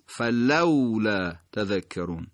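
فلولا slow, with the silent waw clear; careful slow فلولا; silent waw demo. Shown as a demonstration. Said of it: "نحوهٔ خواندن اون واوی که ساکن".

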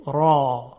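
«را» with a long alef vowel; long fatha. Shown as a demonstration. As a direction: draw out the heavy «را». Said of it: "فتحهٔ کشیده یعنی صدای الف". («را» با فتحهٔ کشیده)

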